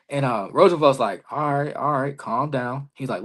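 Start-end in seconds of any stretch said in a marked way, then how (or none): 1.3-2.9 softly retold calming words. Wrestler voicing his colleague settling him down, calming. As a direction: settle him down, softer and level.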